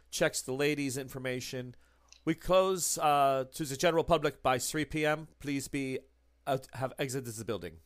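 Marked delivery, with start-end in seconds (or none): 2.2-7.7 brisk official clerk voice; German clerk. Acted. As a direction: play the curt Reichstag clerk.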